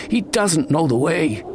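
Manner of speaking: urgent shout. Acted. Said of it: "I screamed".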